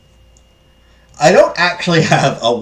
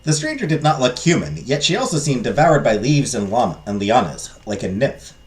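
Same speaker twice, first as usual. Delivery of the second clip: measured storybook narration; story narration. Acted. Narrator describes the strange fairy godmother, storytelling.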